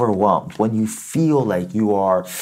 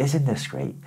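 neutral soft; 4 dB quieter than usual. Shown as a demonstration. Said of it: "No, just".

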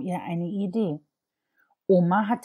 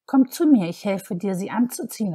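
grandma calling; 3 semitones higher, 5 dB louder than usual. Acted. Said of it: "rief Oma".

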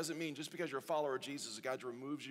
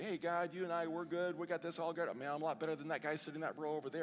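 mock arrogance; 3 semitones higher than usual. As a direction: play someone smugly looking down on others. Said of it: "There's no reason for attitude to say".

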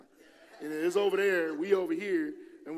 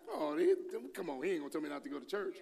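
scoffing; 2 semitones higher, faster than usual. Retold or imitated. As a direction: wave it away like it's nonsense. Mocking the doubters' dismissive reply.

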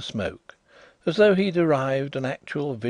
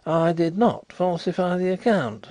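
higher, louder indignant protest; hot denial; 8 semitones higher, 5 dB louder than usual. A narrator's reading. Ex-solicitor denying the accusation to his friend, hotly. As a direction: deny it hotly, pitched up. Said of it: "cried Carlyle hotly".

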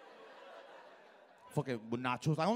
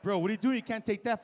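alarmed coworker; 2 semitones higher, 9 dB louder than usual. Retold or imitated. Coworker scolds thief.

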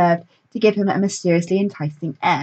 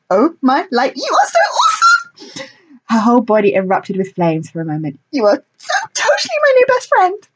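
pixie; 8 semitones higher, 3 dB louder than usual. A narrator's reading. Pixie gushes at Echo.

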